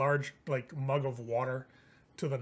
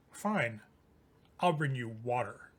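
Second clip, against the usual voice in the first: lower, dry, dismissive reply; curt elf; 4 semitones lower than usual. Acted. Lammas snubbing Liam, low and dismissive. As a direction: cut him down coldly.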